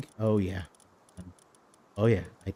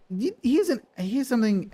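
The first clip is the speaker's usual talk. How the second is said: squeaky; 12 semitones higher than usual. Acted. Building up to an accent.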